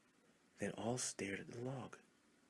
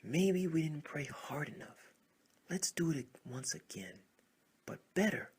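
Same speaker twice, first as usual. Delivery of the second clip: higher, louder rallying shout; frog shouting again; 6 semitones higher, 6 dB louder than usual. Acted. A frog rallies the crowd to pray again, loud. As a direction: rouse the others to pray harder. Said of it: "one of them shouted again".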